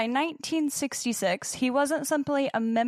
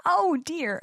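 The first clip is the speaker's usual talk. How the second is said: prim British "Oh, dear" pitched up; hammed-up posh fret; mock British accent; 6 semitones higher, slower than usual. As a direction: play a fussy English lady. Put-on British exclamation.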